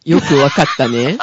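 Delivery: loud laughing dominatrix queen. Pretend. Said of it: "女王様か。".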